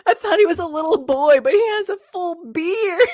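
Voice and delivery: shouting. Retold or imitated. Quoting Beth's shouted line.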